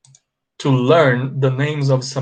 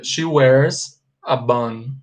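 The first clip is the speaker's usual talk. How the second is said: slow model sentence; slower than usual. Shown as a demonstration. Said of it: "eu falaria".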